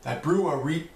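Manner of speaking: shaky attempt at a British accent, breaking off. Shown as a demonstration. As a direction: start a British accent and give up. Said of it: "say something in my best British accent".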